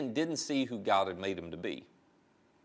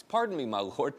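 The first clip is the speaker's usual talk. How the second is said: polite; 2 semitones higher than usual. Retold or imitated. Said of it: "It's so, so nice".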